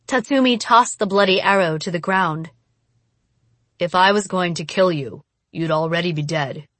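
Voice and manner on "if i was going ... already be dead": stated flatly. Acted. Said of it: "he stated flatly".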